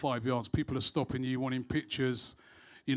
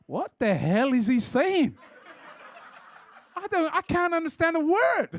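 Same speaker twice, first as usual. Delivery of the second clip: laughing disbelief; 12 semitones higher than usual. Real, not acted. Host laughing about an American fan he couldn't understand. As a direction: crack up over words he can't understand.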